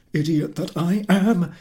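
husband cursing his own folly; exclaimed. Acted. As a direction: curse yourself aloud. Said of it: "he exclaimed".

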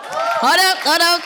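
loud sudden self-interruption; emphatic. Real, not acted. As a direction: stop yourself short, loudly. Catching herself mid-story.

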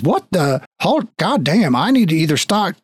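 mildly freaked out at seeing his double; baffled papa. Acted. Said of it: "sees himself and goes".

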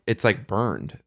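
talking with a sore tongue; words careful around a burnt tip. Real, not acted. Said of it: "So I'm talking funny".

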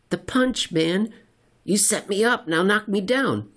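high, eager voice pressing for a punchline; a goofy man begging for the joke's payoff, pitched well up; high goofy prodding voice; Silverbug's joking voice. Acted. Silverbug voiced, pushing joke.

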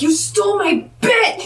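high, indignant mock yell; retold accusation pitched well up; mock outrage. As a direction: play at being outraged. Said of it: "American Logan is like".

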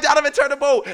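high, loud shouted order; exasperated acted shout; screaming at him. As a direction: yell it across the water. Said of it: "we're just screaming at him".

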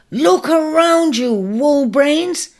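high, loud, cheeky yell; excited yell. A narrator's reading. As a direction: shout it from the back. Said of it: "came an excited yell from the rear".

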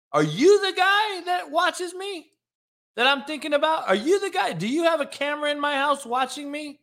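high-pitched, incredulous interrogation; indignant grilling. Real, not acted. Mock-outraged grilling of chat commenter.

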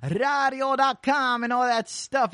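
quick, upbeat radio host read; radio DJ shout-out. Acted. Radio host greeting his listeners, fast DJ patter. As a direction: rattle off the shout-out like a DJ.

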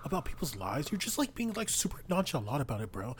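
heated, pushy street challenge; confrontational. Acted. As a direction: get in his face, rising heat. Player character confronts NPC.

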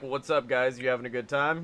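low, laid-back greeting; lightly voiced low hangout voice; John Cena. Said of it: "John would just hang out and be like".

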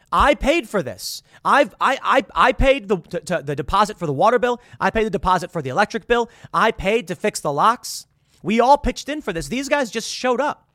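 loud, high, stammering protest; indignant roommate listing everything he paid for; building exasperation, voice climbing; exasperated rant. Pretend. Roommate rant about paying bills.

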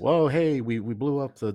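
high and loud whoop, hammed-up triumph; mock heroic cheer. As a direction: cheer like a victorious rebel pilot. Acting out the heroes' celebration.

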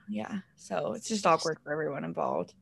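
whispering. Real, not acted. Whispering after joke.

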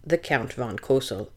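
low, soft sneering villain voice; sneering panto villain. Acted. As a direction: purr the title like a pantomime baddie. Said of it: "as he liked to call himself".

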